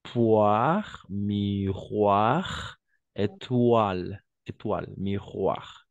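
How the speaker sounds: "Poire, miroir, étoile" with OI as WA, slowed down; oi sound demo. Shown as a demonstration. Teacher modelling WA in "Poire, miroir, étoile". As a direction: spell out the WA sound in each word. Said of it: "O, I, oie".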